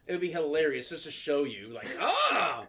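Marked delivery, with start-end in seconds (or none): 2.0-2.7 mock exclamation. Exclaims imagining showing the files.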